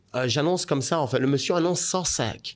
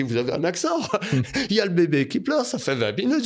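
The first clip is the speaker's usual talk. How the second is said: high, half-laughing complaint; re-enacted exasperation with a laugh; retold protest; 7 semitones higher than usual. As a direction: pile up excuses in a raised pitch. Retold protest, excuses piling up.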